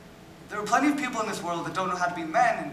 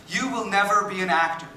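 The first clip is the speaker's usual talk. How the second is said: louder, emphatic mock pronouncement; imitated put-down; 2 semitones higher, 5 dB louder than usual. The speaker retells his cousin's verdict, imitated put-down. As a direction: mimic a cousin's firm dismissal.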